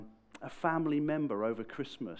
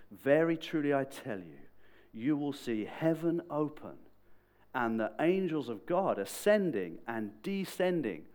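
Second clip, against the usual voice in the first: emphatic, solemn pronouncement; louder, weighty and deliberate; serious point; 3 semitones higher, 5 dB louder than usual. Retold or imitated. Jesus making a serious point to Nate, emphatic. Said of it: "when he's making a serious point".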